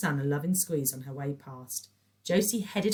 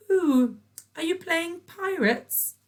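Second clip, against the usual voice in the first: patronising; 14 semitones higher, 7 dB louder, slower than usual. A narrator's reading. Patricia mocks child.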